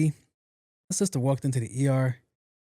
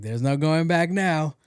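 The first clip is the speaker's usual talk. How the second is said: grinning; 3 semitones higher, much slower than usual. Retold or imitated. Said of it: "With the biggest smile on my face".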